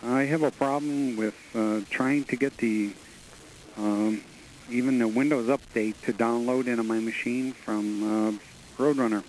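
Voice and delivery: caller on a phone line; radio caller. Real, not acted. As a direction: voice through the telephone. Caller phoning into show.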